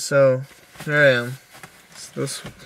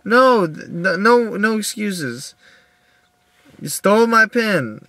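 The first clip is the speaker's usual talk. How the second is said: high, loud repeated no's; angry refusal; 8 semitones higher, 5 dB louder, slower than usual. Retold or imitated. To the roommate offering excuses, a loud furious no. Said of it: "and it's like".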